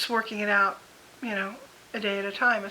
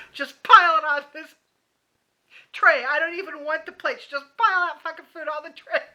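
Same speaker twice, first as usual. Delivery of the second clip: louder, giddy, laughing rush of orders; manic ranting order; 4 semitones higher, 4 dB louder than usual. Pretend. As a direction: pile on food like a frazzled glutton. Stressed eater loading cafeteria tray.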